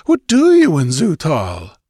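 high, loud questioning; bewildered demand. A narrator's reading. Stranger questioning real intruders in his city, bewildered. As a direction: press them in astonishment. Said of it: "a look of bewilderment".

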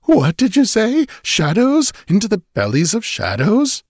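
high-pitched, alarmed questions; violently startled. A narrator's reading. Stranger turning ashy at mention of shadows, horrified questioning. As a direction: echo the words in rising horror. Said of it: "The man started violently".

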